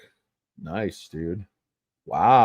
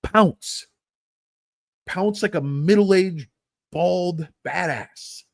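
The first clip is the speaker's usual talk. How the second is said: higher, slow, growly hype; hammed-up pounce; 6 semitones higher, much slower than usual. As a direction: pump them up like a coach. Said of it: "opportunity to pounce".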